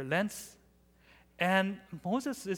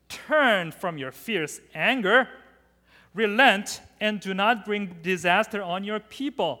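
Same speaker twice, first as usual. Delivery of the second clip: loud pleading; 3 semitones higher, 7 dB louder than usual. Acted. Moses begging God to relent.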